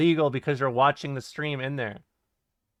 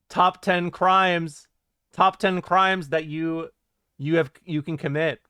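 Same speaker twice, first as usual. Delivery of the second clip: Chills; 3 semitones higher, 4 dB louder than usual. Acted. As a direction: announce it like a top-ten video, stretching each word. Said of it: "my Chill's impression".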